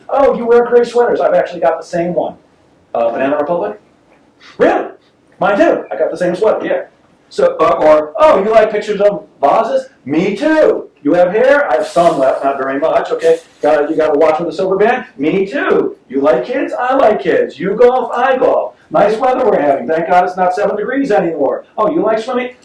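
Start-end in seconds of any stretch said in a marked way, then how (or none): 0.1-6.8 hint of a phony salesman; typical salesperson. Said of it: "the typical salesperson does it like this". 8.2-22.5 hint of a phony salesman; typical salesperson. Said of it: "the typical salesperson does it like this".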